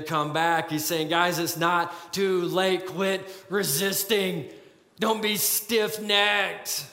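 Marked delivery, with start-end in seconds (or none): 1.1-6.8 slow, tender plea to repent; gentle urging. Acted. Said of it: "He's urging them to repent".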